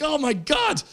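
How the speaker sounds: high, hammed-up exclamation; mock anguish. Comic regretting that he said no, mock-anguished cry. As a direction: wail it in acted regret.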